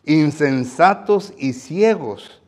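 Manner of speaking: loud, very slow denunciation; scornful rebuke. Acted. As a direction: stretch out every syllable in scorn. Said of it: "noten en cómo Jesús aquí viene a decirles".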